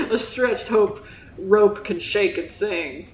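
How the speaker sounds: lightly voiced Southern old salt of a fisherman; Southern accent, telling a grave sea tale. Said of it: "that's my Southern accent".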